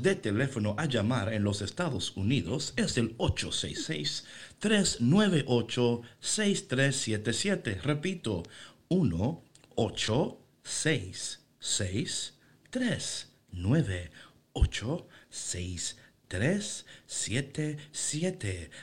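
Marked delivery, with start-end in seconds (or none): 2.8-7.8 slow, evenly spaced robotic digit readout; toy robot voice. Shown as a demonstration. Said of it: "una voz de robot". 8.9-18.7 very slow, mechanical digit-by-digit robot readout; toy robot voice. Shown as a demonstration. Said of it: "una voz de robot".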